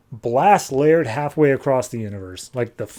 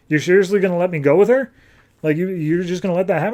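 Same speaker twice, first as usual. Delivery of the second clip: quick, higher-pitched disbelief; mock incredulity; 5 semitones higher, faster than usual. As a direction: question it fast, as if betrayed. Captive disbelieves he is abandoned.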